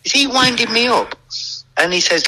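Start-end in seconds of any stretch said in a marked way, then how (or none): 0.0-1.1 much higher, incredulous question; disbelieving. Retold or imitated. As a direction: ask it like you can't believe your ears. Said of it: "And I'm then going".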